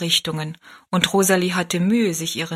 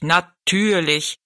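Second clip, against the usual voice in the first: slow, drawn-out giant voice; stately giant; much slower than usual. A narrator's reading. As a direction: stretch it out ponderously as the giant. Riese, von Zwergen wiederholt. (gedehnt sprechender, würdevoller Riese)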